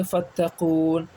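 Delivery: فتقون read very slowly, ending on a still نون; stop form. Shown as a demonstration. Teacher showing students the pausal form, slowly. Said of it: "رکنے پر کیا پڑھیں گے".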